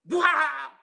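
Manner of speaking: loud, high imitated roar; retold scream. Preacher imitating the scream in the vision, loud and high. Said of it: "teriak, wah".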